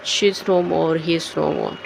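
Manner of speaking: acted sorrow on hearing of a death; sad news of death. Shown as a demonstration. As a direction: say it low, as if taking in bad news. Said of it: "किसी की death हो गई".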